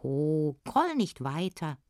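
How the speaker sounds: lightly voiced little dwarf; a hint of the goblin voice; gently calling little smith. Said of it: "sagte der Kleine".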